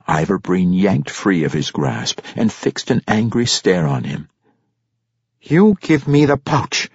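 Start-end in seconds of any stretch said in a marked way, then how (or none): 5.4-6.9 put-on high, forceful drunken demand. A narrator's reading. Drunk halfling father to his son, demanding. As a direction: demand it in a raised character voice. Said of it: "he demanded".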